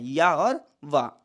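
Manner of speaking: या and वा said slowly, one sound at a time, x0.5; sounds spelled out. Shown as a demonstration. Teacher naming letters to the class, slow and deliberate. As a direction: draw out या and वा as separate letters. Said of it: "दो हैं".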